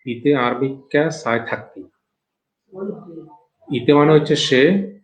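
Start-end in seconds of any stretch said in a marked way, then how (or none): 0.1-1.8 calm Chittagonian regional speech; Chittagong dialect. Shown as a demonstration. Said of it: "চট্টগ্রামে এটাকে বলে".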